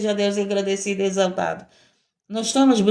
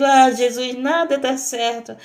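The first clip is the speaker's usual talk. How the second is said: sighing "Ah, Jesus" over and over, lightly whining through each line; mock tearful complaining. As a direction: imitate a bitter, self-pitying prayer without real tears. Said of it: "todo tempo chorando com tristeza".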